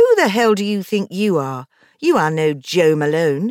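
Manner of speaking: scornful, sneering tone. A woman answering the narrator's hopes for her business, sneering. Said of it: "she sneered".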